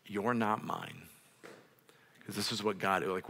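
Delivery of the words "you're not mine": slow declaration. Acted. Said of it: "Adoption is basically".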